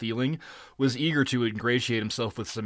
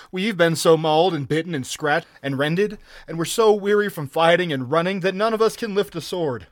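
high, raised complaint of exhaustion; put-upon pirate whine; whining plea; 6 semitones higher, 5 dB louder than usual. A narrator's reading. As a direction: plead your misery to the captain. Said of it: "whined a red-sashed Cimmerian".

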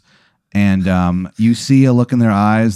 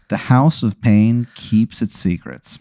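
slow, portentous delivery; hammed-up mystery narration; mock ominous; slower than usual. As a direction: draw it out like a dark secret. Game master's ominous mock thought.

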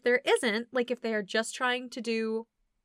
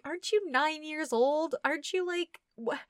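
incredulous; 5 semitones higher than usual. Retold or imitated. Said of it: "And I'm like".

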